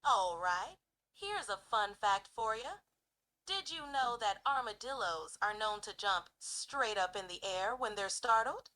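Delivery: loud, folksy Southern Georgia accent. Shown as a demonstration. Sharing a fun armadillo fact, Southern Georgia accent. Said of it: "very strong Southern Georgia type accent".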